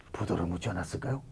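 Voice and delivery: a hint of a naive student asking; mock earnest student query; mock student question. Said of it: "이러면 또라이 되는 거야".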